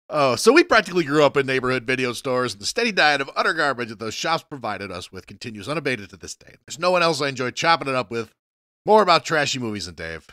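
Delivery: brisk upbeat show intro; a hint of a host's promo read; podcast host read. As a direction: read the housekeeping like an announcer.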